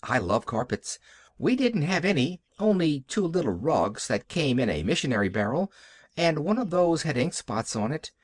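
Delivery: lightly voiced happy little girl; Pollyanna. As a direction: chatter on with a touch of childlike delight. Child Pollyanna chatters about carpets.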